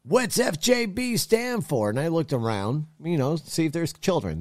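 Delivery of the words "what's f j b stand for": put-on much higher, slow, curious old man voice; old shopper in the next checkout lane asks, high and slow; old man asking. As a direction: voice the old guy squinting at the shirt. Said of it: "He looked at me from across the lane and goes".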